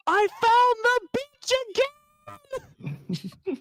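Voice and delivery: very high, drawn-out distant holler; slow, wailing imitation of a far-off shout; Rob. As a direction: stretch out a mock yell from far away. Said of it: "voice in the distance when he's upstairs".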